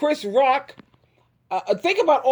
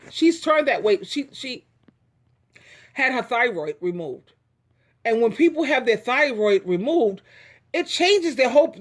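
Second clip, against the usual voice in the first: ordinary talk, nothing marked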